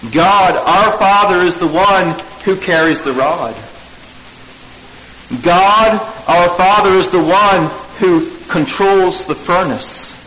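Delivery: preacher's rising refrain; emphatic litany. Acted. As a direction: build the refrain each time. Repeated litany of God's roles.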